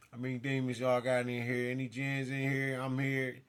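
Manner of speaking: loud challenge to the demons; loud, bold challenge to any demons hiding in the house; calling out demons. Real, not acted. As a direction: call them out of hiding, bold.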